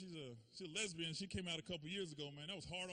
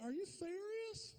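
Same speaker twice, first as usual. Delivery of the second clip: much higher, slow disbelief; mom's surprise; 13 semitones higher, slower than usual. Retold or imitated. Mom hearing she'll be grandma, higher disbelief. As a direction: gasp it out in disbelief. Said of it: "She's like".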